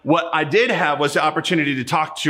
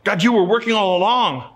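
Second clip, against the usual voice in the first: higher, amazed exclamation of wonder; awed realization; 5 semitones higher than usual. Pretend. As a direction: voice heaven's sudden awe, slowing at the end. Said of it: "We're gonna see".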